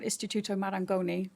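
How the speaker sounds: Istituto Marangoni with Italian vowels and rolled r; Italian accent. Shown as a demonstration. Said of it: "if I say it in Italian accent".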